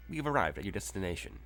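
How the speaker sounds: lightly voiced robot voice, a bit fast; automated car voice, brisk and even. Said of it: "an automated voice is like".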